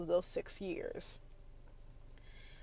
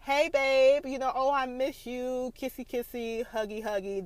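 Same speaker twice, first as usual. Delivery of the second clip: sweet greeting; 4 semitones higher than usual. Retold or imitated. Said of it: "It should be like".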